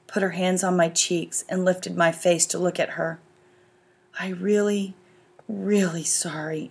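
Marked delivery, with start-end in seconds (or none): 4.2-6.7 soft, quiet, slow apology; whispered. A narrator's reading. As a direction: whisper it tenderly close to her face. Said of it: "she whispered".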